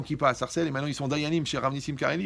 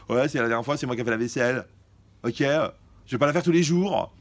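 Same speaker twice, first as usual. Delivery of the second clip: grumbling excuse voice; 7 dB louder than usual. Retold or imitated. Voicing a lazy inner excuse.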